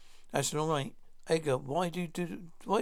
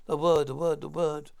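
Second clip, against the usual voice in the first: louder, insistent repetition of the word; demanding shout; 5 dB louder than usual. Acted. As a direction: hammer the demand home. Captor demanding the code word.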